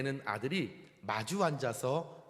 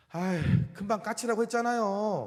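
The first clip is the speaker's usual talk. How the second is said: mildly fed-up, irritated tone, raised and high; 8 semitones higher, 5 dB louder than usual. Telling a story, the son answers his father's repeated question, slightly annoyed, bothered. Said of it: "약간 짜증이 나서 귀찮은 듯이".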